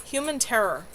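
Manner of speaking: steady read-aloud storytelling voice; story narration. A narrator's reading. Streamer reading her novel to chat, steady narration. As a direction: paint the scent-tracking scene calmly.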